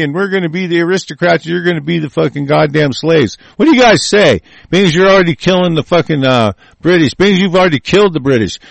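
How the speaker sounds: a lightly voiced, scornful founding father; mocking rich aristocrat. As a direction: ham up the smug elite.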